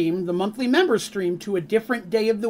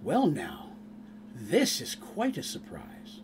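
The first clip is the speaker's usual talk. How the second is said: elven woman; 6 semitones lower, 10 dB quieter, slower than usual. Acted. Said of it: "the elven woman steps in and she goes".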